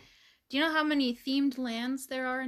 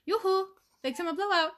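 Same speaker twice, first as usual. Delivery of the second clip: high bright calling out, louder; sing-song yoo-hoo call; 7 semitones higher, 4 dB louder than usual. Retold or imitated. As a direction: call out like a cheery shopkeeper. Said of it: "The best part of Frozen".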